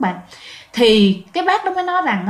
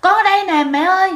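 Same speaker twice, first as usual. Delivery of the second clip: retold wailing call; 8 semitones higher than usual. Trapped daughter crying out to mother, mock wail. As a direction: imitate crying out, without a full scream. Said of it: "chị cũng gào lên, chị khóc".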